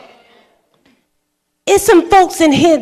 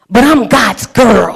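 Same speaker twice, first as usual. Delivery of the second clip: proud declaration; 5 dB louder, slower than usual. Real, not acted. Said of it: "preaching declaration".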